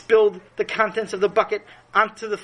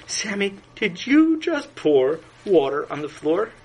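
strained calm. Acted. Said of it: "trying to remain calm".

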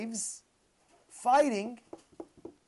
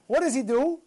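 usual speaking voice

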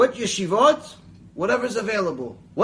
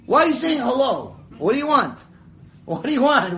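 louder, higher, repeated demand; suspicious Israeli; 6 semitones higher, 5 dB louder than usual. Retold or imitated. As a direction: grill him like he's up to something.

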